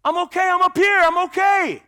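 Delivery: put-on loud high yell to a kid; high-pitched, hollered reassurance; retold scream. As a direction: call out loudly that you're all right. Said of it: "I'm screaming to the kid".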